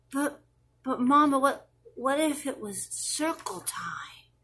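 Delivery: put-on a child leaning in to whisper; hushed child. Child whispering a what-if to Mama. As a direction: kid whispering the question.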